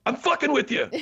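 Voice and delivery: high, laughing reveal; laughing punchline. Retold or imitated. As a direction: crack up on the last line. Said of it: "my last line is".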